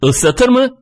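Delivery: very high, incredulous query; astonished, pitch shooting up; stunned question. A narrator's reading. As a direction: ask it in high-pitched disbelief. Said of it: "şaşırmıştı".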